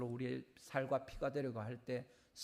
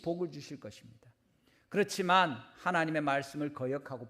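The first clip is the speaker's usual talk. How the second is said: high, loud pulpit proclamation; forceful preaching; 6 semitones higher, 9 dB louder than usual. Acted. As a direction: proclaim it emphatically to the congregation.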